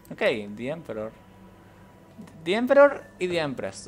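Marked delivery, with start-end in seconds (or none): 2.4-3.9 loud, higher, slow announcement; mock grandeur. Real, not acted. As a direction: announce the names like a herald. Mock grand reading of names.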